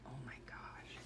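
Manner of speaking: breathy whisper of awe; whispered oh my gosh. Real, not acted. Mother whispering over her daughter's baby photos, awed.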